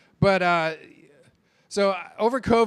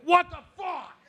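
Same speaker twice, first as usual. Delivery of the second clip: a much higher shocked squawk at the bill; mock outraged outburst; 12 semitones higher than usual. Comic retelling his shock at an unexpected bill, mock outrage. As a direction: yelp it up high in disbelief. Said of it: "I'm like".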